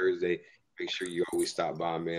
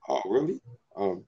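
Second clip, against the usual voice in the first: high, loud, rising incredulous question; mock disbelief; 7 semitones higher, 6 dB louder than usual. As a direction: act out someone reacting in disbelief, pitch climbing. Acting out a person's blunt reaction.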